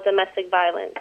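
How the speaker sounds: speaking up. Real, not acted. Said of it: "speak up a little bou".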